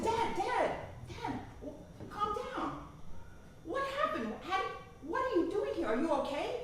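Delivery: calming, worried. Retold or imitated. Daughter calming furious father.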